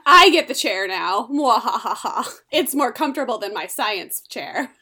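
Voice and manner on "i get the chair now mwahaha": gloating villain voice with a laugh. Pretend. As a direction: ham up a villain's triumphant cackle. Spock voiced gloating over chair.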